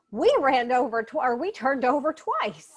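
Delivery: lightly acted excited grandmother; retold excitement with a lift at the end; excited grandma. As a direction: play a thrilled grandma, lightly. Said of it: "She's so excited".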